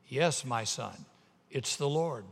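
measured, composed voice from heaven; calm powerful voice. Acted. The Lord answering the frightened tourist, calm. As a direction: answer with quiet authority. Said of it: "a calm, powerful voice".

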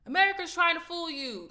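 high, loud mock scream of a ranter; retold screaming. White guy suddenly ranting on a silent train, mock screaming. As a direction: blurt it out like a ranting stranger. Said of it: "Starts fucking screaming".

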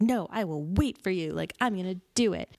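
a hint of a singer belting with passion; mock-earnest singer putting himself into it; singer impression. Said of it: "That's my impression".

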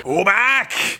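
shouted name. Pretend. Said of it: "to shout about".

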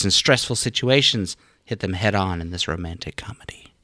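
lightly voiced trailer narrator; a hint of the movie trailer announcer. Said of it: "You sound like the trailer guy".

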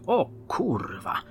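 whispered curse under the breath, slow; muttered curse. Acted. Detective hears the confession, whispered slow curse. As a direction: breathe the swear out in shock. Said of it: "mruknęła Dagmara".

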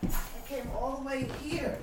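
loud slow call from the doorway. Real, not acted. Visitor at the door calling to the host. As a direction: project it across the house.

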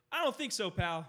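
retelling a cocky dismissal to a rude customer; sassy comeback. Retold or imitated. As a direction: hand it back with a smirk. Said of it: "That's a, that's a meme".

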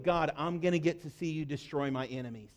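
low, soft aside to God; acted prayer, dropped low and soft; muted vow. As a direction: say it under the voice, as a private hope. Jonah's hope voiced to God.

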